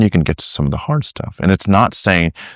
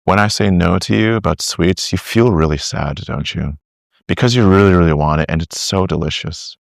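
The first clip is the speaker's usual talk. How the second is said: tender reassuring tone, a little lower; gentle validating; 3 semitones lower than usual. Shown as a demonstration. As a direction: comfort a disappointed child. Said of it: "Just say".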